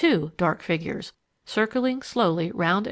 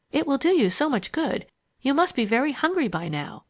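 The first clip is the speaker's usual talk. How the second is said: higher-pitched, mild coaxing; gentle urging; 7 semitones higher than usual. A narrator's reading. Leslie urging soup on hungry Eileen, gentle coaxing. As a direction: coax with a lilting, raised voice. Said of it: "urged Leslie".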